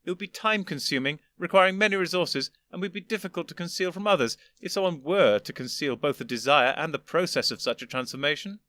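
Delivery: put-on an old gentleman patiently explaining; lofty old Doctor. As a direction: superior elder explaining to his younger self. First doctor lecturing.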